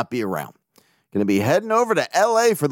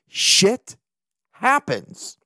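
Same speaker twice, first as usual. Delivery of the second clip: high, far-off inserted voice; soundbite drop; 7 semitones higher, much slower than usual. Pretend. A dropped clip shrugging off blowout losses. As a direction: toss it in like a clip.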